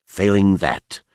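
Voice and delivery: grind it out through the teeth; through gritted teeth. Acted. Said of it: "he said through his teeth".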